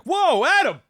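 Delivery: high, loud, gushing relative greeting; cheek pinching aunt. Retold or imitated. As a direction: squeal it like a doting aunt.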